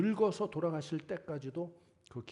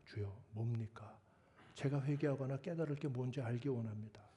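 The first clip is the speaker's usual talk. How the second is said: humble prayer; 4 dB quieter than usual. Shown as a demonstration. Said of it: "이렇게 나아가야지".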